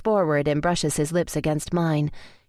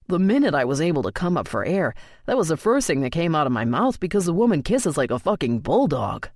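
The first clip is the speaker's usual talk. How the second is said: Colton, lightly voiced. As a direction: narrator slips lightly into Colton telling the story.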